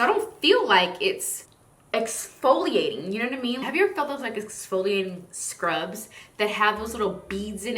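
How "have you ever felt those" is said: usual speaking voice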